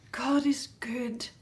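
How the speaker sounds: slow hushed thanksgiving; whispered thanks. Acted. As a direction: breathe a prayer of thanks. Mother's thankful prayer.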